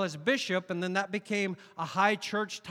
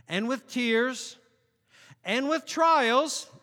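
slow solemn reading; 5 semitones higher, 6 dB louder, much slower than usual. Acted.

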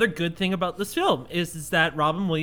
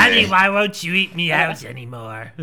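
cigarette voice; 4 dB louder than usual. Acted. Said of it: "I missed the cigarette voice".

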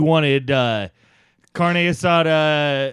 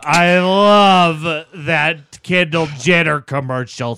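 gushing; 3 semitones higher, 8 dB louder, much slower than usual. Acted. Driver gushes about Pepsi ad.

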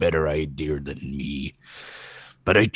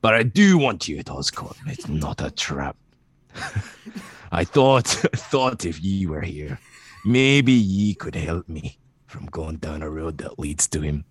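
put-on a villain's plea in a lightly held Scottish-tinged accent that keeps slipping; Scottish-leaning accent. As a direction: plead gently as a lightly voiced Norman. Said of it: "you went right back to Scott".

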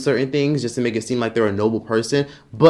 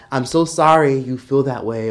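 fake apology. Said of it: "they hit you with that".

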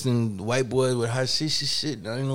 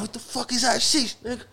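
mock disbelief; 8 semitones higher than usual. Shorty baffled by hashish.

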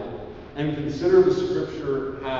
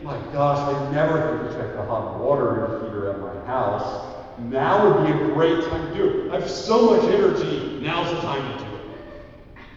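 eager distraction. Acted. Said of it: "you'll think".

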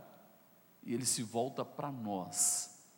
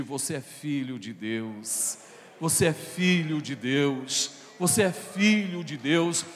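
building to a shout; 4 semitones higher, 13 dB louder, slower than usual. Acted. Pastor repeats the promise to the church, building to a shout. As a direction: repeat it, each time louder and higher until shouting. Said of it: "Eu vou repetir".

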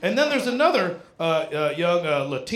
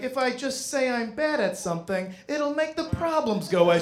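put-on pretty girl act; 4 semitones higher than usual. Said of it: "did the pretty girl thing".

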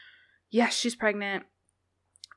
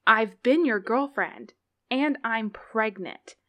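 reading as Annie; 3 dB louder than usual. Acted. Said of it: "reading as Annie".

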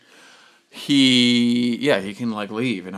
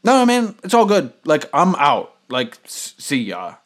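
placating; 4 semitones higher, 4 dB louder than usual. Retold or imitated. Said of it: "I was like".

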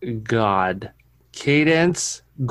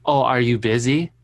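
put-on sassy toddler. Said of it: "Why do you gotta say it like that?".

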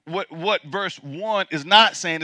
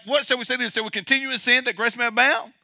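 softer, fast, half-mumbled objection; mock objector; 4 semitones higher, 4 dB quieter, faster than usual. Preacher mimicking the objector's question to the congregation, softly and fast. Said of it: "the objector was like".

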